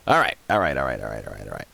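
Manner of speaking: all right dropping away to a murmur; fading repeats. Real, not acted. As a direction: let it fade out like a dying echo.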